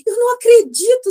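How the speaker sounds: high, loud mock amazement; amazed neighbor. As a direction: play the stunned neighbor. Neighbor finds her lost key.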